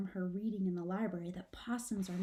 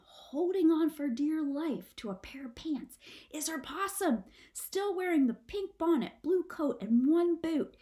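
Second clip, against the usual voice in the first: climbing higher as the reveal builds; rising suspense; 6 semitones higher than usual. A narrator's reading. Narrator building suspense toward the possum reveal. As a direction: build the tension line by line.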